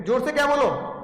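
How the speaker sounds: ordinary talk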